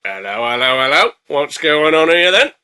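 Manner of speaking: lightly voiced policeman catching someone out; mock bobby. You're not a police officer.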